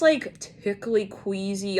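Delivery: ordinary talk, nothing marked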